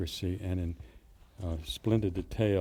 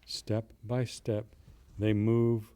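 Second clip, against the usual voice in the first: measured, deliberate poetry recital, phrase by phrase; poem reading; slower than usual. Acted. Poet reading a street-scene poem to his audience, measured recital. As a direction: read the verse slowly with weighted pauses. Reads a Hardy poem aloud.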